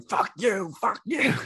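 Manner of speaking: high, squawked comic insults; mock background taunting. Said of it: "I'm in the background like".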